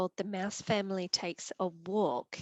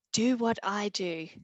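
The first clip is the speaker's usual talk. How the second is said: firm and louder; brave mother mouse; 6 dB louder than usual. Acted. Mother mouse rallying her children, firm and brave. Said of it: "turned to her children and said".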